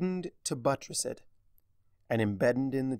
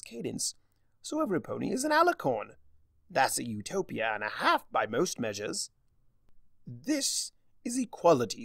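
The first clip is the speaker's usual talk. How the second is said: Discord voice; 3 semitones higher than usual. Acted. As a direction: savour each word like a smug trickster. Discord cheerfully justifies the world.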